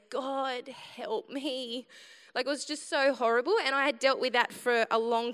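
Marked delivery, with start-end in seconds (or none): 0.1-1.9 softer, faint repeated plea; quiet plea. Retold or imitated. Retelling the car ride, a softer weak plea. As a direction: breathe the plea out weakly. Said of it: "I just went".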